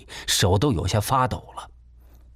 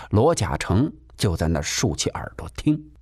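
usual speaking voice

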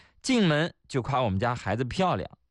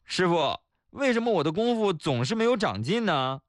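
徒弟请教师傅; 4 semitones higher than usual. Acted. 徒弟向师傅请教.

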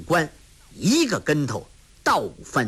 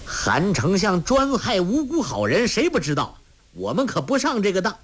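high, fast scornful retort; defiant shout; 8 semitones higher than usual. A narrator's reading. Yang Tiexin refusing to be fooled, defiant fast shout. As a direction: hurl it back at the officers. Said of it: "叫道".

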